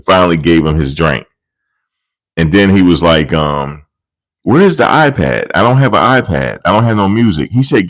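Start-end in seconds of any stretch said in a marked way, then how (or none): 4.4-7.5 lightly voiced demanding dad; mock demand. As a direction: act spoiled and put out. Man demanding music.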